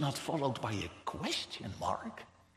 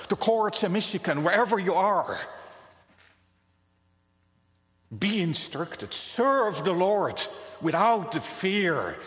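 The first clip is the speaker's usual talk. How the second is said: proclaiming warning; 2 semitones higher, 5 dB louder than usual. Acted. Poet warns the nations.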